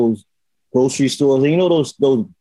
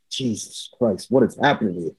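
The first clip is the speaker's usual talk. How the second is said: retold dread; 4 semitones lower, 5 dB quieter than usual. Retold private dread in bathroom.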